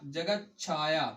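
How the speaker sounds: slow, deliberate dictation pace; teacher dictating slowly. Shown as a demonstration. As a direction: spell out each word slowly for the class. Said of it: "क्या?".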